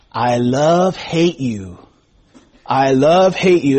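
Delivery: slow, drawn-out imitation of a class clown; John Rodriguez's funny voice. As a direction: lightly attempt a joking Mexican-accented catchphrase. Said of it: "put on this over-exaggerated Mexican accent and talk in a funny voice".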